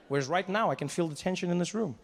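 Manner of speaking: normal talking voice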